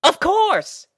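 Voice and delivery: excited pony cry. A narrator's reading. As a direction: cry out the answer. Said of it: "she cried".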